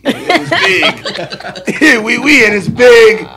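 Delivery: real laughter breaking through a boast; laughing. Real, not acted. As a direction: crack up as you brag. Laughing at his own joke.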